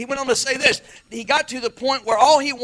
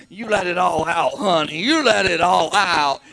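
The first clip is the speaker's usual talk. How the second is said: put-on drawn-out coaxing, as little old church ladies; encouraging church ladies; 2 semitones lower, 3 dB louder, slower than usual. Church ladies urging a crying girl at the altar, coaxing. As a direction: coax it out with long, stretched words. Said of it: "all the little ladies will come up".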